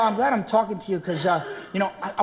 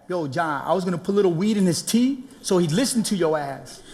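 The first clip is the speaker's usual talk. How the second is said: Ray's stoner voice; 6 semitones lower, faster than usual. Retold or imitated. Stoner buddy pushing weed, low and fast. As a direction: play the laid-back stoner buddy.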